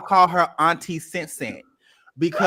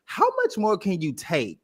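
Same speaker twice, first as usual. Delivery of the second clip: impassioned; 3 semitones higher than usual. Real, not acted. Passionate defense of Drew.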